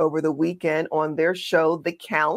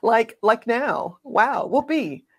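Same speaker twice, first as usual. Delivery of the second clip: sarcastic, higher-pitched mock defensiveness; put-on higher voice, mockingly reassured; mock agreement; 4 semitones higher than usual. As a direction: feign being convinced, with sarcastic cheer. Mockingly voices Democrats' claim, sarcastic cheer.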